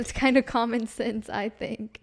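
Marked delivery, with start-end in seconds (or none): 1.3-2.0 repeating the mimic in a put-on voice; mimicking her partner. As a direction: copy his way of saying it again. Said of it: "whenever you try to mimic me".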